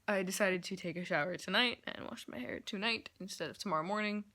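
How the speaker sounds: lisping through a retainer; wearing a retainer. Real, not acted. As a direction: talk round a retainer. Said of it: "I have my retainer on".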